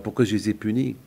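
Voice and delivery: usual speaking voice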